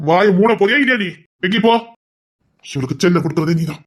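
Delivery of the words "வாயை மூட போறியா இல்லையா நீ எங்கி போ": louder barked command to shut up; loud rebuke. Acted. Brother silencing his sister, loud stern command. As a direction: shut her down hard.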